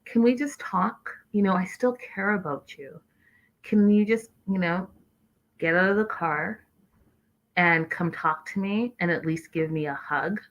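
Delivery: whisper-soft wheedling imitation; imitating soft pleading. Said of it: "when he was like".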